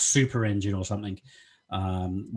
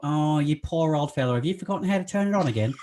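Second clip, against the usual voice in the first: higher-pitched mock sympathy, rushed at the end; mock pity; 4 semitones higher than usual. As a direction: pity a forgetful old fella, teasingly. Acts out pitying an old man.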